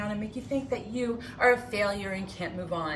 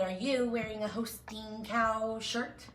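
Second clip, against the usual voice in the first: put-on slowed sneering old woman; mock the crabby teacher's question; 3 semitones higher, slower than usual. Imitating Missus Rogers mocking a child's shirt, slow sneer. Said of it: "that wretched old voice of that crabby old woman".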